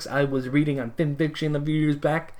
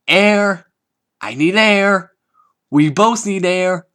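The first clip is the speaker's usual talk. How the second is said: high, loud, strained cries for air; squeezed gasping pleas, slowing down; breathless plea; 6 semitones higher, 11 dB louder, slower than usual. Acted. Rainbow begging Pinkie to loosen the hug, high strained gasps. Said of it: "Rainbow wheezed".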